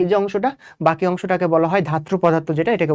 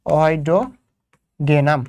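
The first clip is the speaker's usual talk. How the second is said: অইডোগেনাম stretched out very slowly, syllable by syllable; slow, drawn-out name; 4 semitones lower, much slower than usual. Shown as a demonstration. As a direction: draw out অইডোগেনাম slowly, hunting for the word. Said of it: "আমি যদি ভুল না হয় এটাই". (অইডোগেনাম খুব ধীরে টেনে টেনে বলা)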